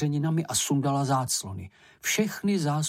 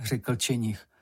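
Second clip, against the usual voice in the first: plain reading voice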